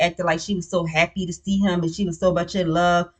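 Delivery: talking through a yawn; mid-yawn, words stretched out. Real, not acted. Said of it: "Oh, excuse me, I'm yawning".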